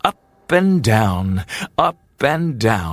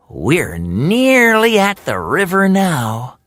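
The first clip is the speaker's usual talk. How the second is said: lightly voiced little bird; hopeful thought; 7 semitones higher, 3 dB louder than usual. Hummingbird thinking about the finish, lightly voiced. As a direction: plan the win. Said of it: "he thought".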